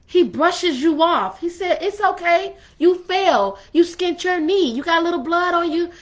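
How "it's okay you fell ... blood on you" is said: lightly voiced motherly reassurance; mama soothing. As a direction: comfort them like a mama tending a scrape. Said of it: "he do that mama, you know, thing".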